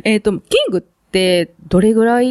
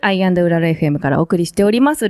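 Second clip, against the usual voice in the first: bright on-air station intro; radio announcer read. Acted. Host opening the show to listeners, announcer read.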